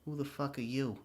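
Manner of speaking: lightly mocked dumb delivery of a movie line; stupid line reading. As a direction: repeat the botched line, mocking it. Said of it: "He says it so stupidly".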